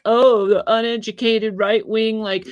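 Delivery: hammed-up snobbish mockery; mocking quote. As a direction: sneer it like a smug elitist. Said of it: "They come out with this all the time".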